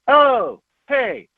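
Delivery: high, perky imitation of a friend; mock-excited friend. Reviewer voicing film character's friend, mock-eager and high. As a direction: pitch it up like a bright idea just struck. Voices the friend's foolish suggestion.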